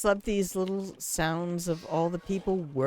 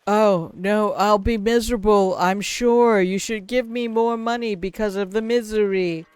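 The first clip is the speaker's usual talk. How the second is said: mock misery; 5 dB louder than usual. Mock answer to the interviewer.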